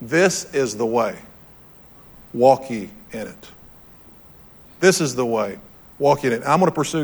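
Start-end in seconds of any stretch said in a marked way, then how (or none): 0.0-3.5 slow, deliberate reading of scripture; unhurried scriptural quote of God's words; slow solemn quote. Shown as a demonstration. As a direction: let each word land slowly, with weight. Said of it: "Here's what he said".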